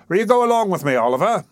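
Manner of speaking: high, loud majestic beadle. A narrator's reading. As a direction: boom it out grandly. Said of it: "in a majestic voice".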